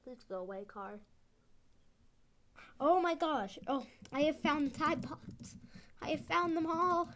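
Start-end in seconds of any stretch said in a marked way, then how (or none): 2.8-7.1 excited. Real, not acted. Finds the Tide Pods at last.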